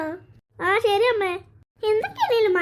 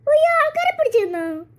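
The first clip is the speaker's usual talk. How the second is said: put-on scared little girl; 8 semitones higher, 3 dB louder than usual. Little girl hears frog news.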